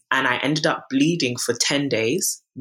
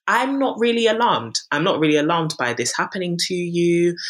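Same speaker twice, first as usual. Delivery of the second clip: imitated unconcerned doctor; 5 semitones higher than usual. GP dismissing a patient's bleeding, imitated unconcerned voice. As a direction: mimic a doctor brushing off worry.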